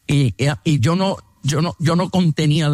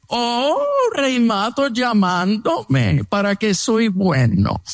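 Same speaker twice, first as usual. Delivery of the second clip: mock sweet tone; 5 semitones higher, much slower than usual. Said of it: "su actitud es".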